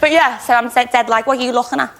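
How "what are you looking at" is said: light Scouse character voice; Scouse accent. Shown as a demonstration. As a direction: put on a bit of Scouse challenge. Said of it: "You do a good Scouse accent".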